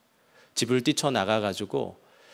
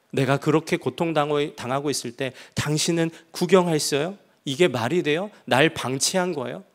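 indignant raised accusation against God; angry reproach; 3 semitones higher than usual. Retold or imitated. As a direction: demand an answer, hurt and angry. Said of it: "그걸 보더니 더 화가 났대요".

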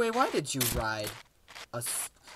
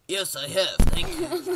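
smug voice; 5 semitones higher, 5 dB louder than usual. Pretend. God answers in mock voice.

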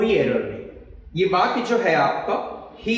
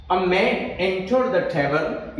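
slow, word by word dictation; teacher reading the exam sentence aloud slowly; much slower than usual. Shown as a demonstration. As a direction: spell the sentence out slowly for students. Reads example sentence slowly.

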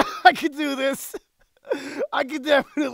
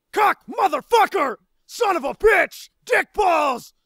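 higher, separate exclaimed curses; random cursing; 4 semitones higher than usual. Acted. Actor improvising swear words for editing, exclaimed. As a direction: spit out each curse, with a space between. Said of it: "say random swear words one after the other".

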